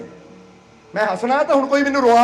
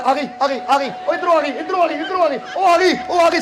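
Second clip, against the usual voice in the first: joyful exclaim; 3 semitones higher than usual. Shown as a demonstration. Preacher shows the crowd the right, joyful way. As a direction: point around and cry ਆ ਗਈ with delight. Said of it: "ਏਦਾਂ ਕਹਿਣਾ".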